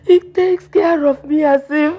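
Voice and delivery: sobbing lament for her husband; wailing widow. Acted. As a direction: cry out his name in grief.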